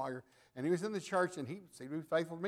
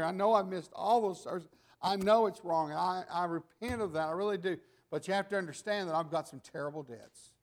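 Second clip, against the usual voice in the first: imitating a tearful plea; 2 semitones higher, 6 dB louder than usual. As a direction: beg the preachers, lightly playing the tears. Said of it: "He was crying".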